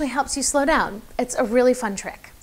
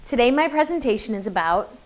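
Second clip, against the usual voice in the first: presenter demo with long pauses between phrases; one phrase per person. Shown as a demonstration. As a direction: deliver one phrase, pause, then the next. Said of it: "do one phrase to one person".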